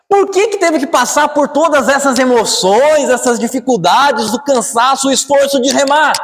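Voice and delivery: high-pitched, crying-out sermon questions; sustained, urgent preacher's protest; impassioned preaching. Acted. Preaches anguished questions at full force.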